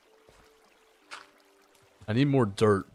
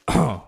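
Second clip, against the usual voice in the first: voice crack; 5 semitones higher, 5 dB louder than usual. Real, not acted. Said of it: "wow, voice crack".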